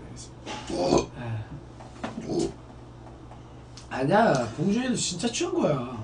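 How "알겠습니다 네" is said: whispering. Real, not acted. Whispered reply.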